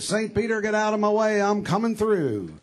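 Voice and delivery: a hint of arrogant governor barging through; pushy governor. Perry demanding Saint Peter step aside, lightly voiced pushy tone.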